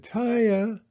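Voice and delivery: high, loud repeated calls; calling out. A narrator's reading. Father calling through the store for his missing daughter, loud and high. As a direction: search the aisles for her. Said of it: "He said".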